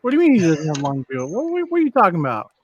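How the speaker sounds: surprised. Real, not acted. Shocked at news.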